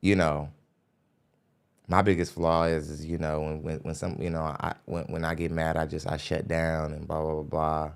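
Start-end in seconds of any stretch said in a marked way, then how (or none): 1.9-7.9 quiet, low, dismissive recap of someone else's words; imitating women's talk. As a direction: lightly mimic her, low and much softer. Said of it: "When you speak like this, when you say".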